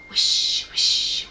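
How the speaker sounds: unvoiced rustling whisper; trees whispering. A narrator's reading. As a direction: let it rustle like leaves. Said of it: "said the trees at once".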